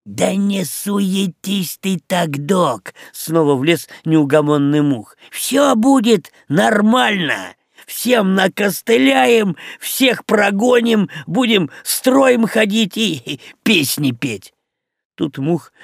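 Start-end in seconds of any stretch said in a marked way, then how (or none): 0.0-2.9 higher, slow, lightly voiced little fly; a pesky little pest brushing off worry; Мух teasing the doc, cheeky and high. 5.3-14.5 high, slow, gung-ho little fly; Мух promising to chase everyone off, boastful and high. Acted.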